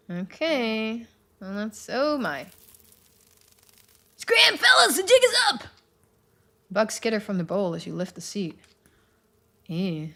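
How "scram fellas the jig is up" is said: high, tiny squeaky critter; bug voice. Acted. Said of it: "I hope you like my bug voice".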